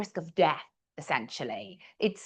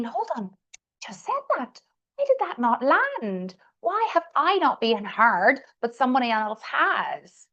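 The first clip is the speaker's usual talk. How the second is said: higher-pitched, baffled inner voice; incredulous protest; 4 semitones higher than usual. Acted. Overlooked speaker thinking after the leader praises a colleague, incredulous. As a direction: act out being overlooked and puzzled by it. Acts out overlooked person's disbelief.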